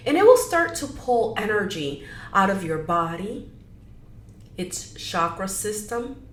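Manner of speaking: measured meditation guide with long pauses; gentle guiding, pausing often; guided meditation. Acted. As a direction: ease them into it, leaving room between phrases.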